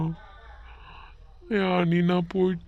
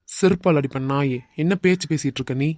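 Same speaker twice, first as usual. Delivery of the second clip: angry scolding; faster than usual. Acted. Friend scolds despairing friend.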